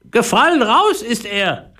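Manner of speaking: very high parrot mother calling. Acted. Parrot mother calling down to the boy, high and squeaky. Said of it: "rief die Papageimutter".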